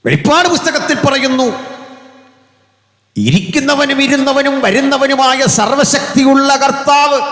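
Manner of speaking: thundering pulpit proclamation of scripture; full-force preaching. Acted. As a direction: proclaim it to the back row like a revival preacher.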